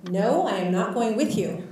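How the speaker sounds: retold firm refusal. Patient refusing the paramedics, adamant. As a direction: imitate a patient firmly refusing, each word punched.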